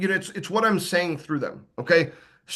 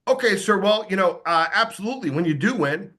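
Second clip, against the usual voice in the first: mock oblivious cheer; 2 semitones higher than usual. Shown as a demonstration. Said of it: "I'm not gonna go".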